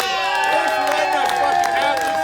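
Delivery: loud, high closing yell; big shout-out. Real, not acted. Thanking the Underground Comedy crowd, loud and high.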